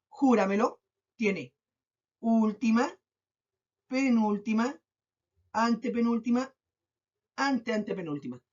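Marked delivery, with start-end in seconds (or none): 2.2-8.4 spaced list, última to antepenúltima rising, anteantepenúltima falling; counting off positions. Shown as a demonstration. Teacher locating the syllable of júramelo, counting off with pauses. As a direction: pause after each term, close downward on anteantepenúltima.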